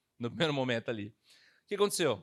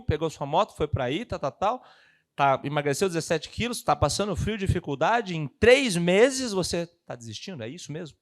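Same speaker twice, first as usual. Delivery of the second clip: rousing mother; 7 dB louder than usual. Retold or imitated.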